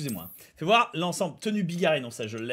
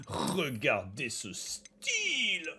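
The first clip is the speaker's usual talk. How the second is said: murmure lent et admiratif; chuchoté; 4 semitones lower, 9 dB quieter, much slower than usual. Acted. Admire une tenue. (chuchotement admiratif)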